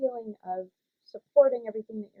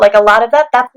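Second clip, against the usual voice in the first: head voice siren; 18 dB louder than usual. Shown as a demonstration. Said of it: "think about sirens".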